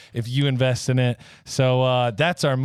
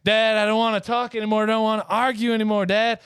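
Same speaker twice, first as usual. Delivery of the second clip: son voice; 8 semitones higher than usual. Retold or imitated. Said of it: "and he's like".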